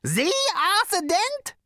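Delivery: very high, loud, rising questions; amazed yelping. A narrator's reading. Prack recognises the Arthur Dent, yelping in disbelief. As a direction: climb into incredulity, stretching the second question. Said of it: "he yelped".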